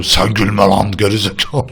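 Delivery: mock American-accented Turkish. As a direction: read it like an American speaking Turkish. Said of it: "Amerikalı yazıyor".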